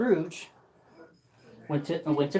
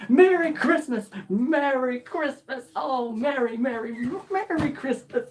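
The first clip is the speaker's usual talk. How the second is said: joyful greeting; 6 semitones higher than usual. Acted. Scrooge greets street joyfully.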